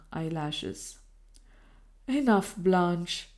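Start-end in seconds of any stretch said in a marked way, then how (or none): 2.1-3.3 slow, gentle and hushed; a lover softening as she tears up; softer voice. Acted. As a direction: ease off, let her be. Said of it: "continued in a softer voice".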